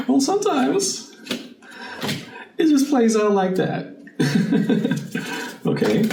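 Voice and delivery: high, giggly, amused voice; amused laughing. Real, not acted. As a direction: laugh it off when cards jump out. Laughing as cards fly out.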